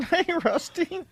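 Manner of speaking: high, drawn-out hello to a puppet; high greeting voice. Pretend. Host humouring a puppet, high drawn-out voice. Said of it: "give you my man voice".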